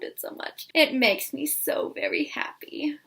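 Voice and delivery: breathy little whisper of joy. Real, not acted. Gushing to viewers about a book, whispering. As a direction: whisper it like a happy secret.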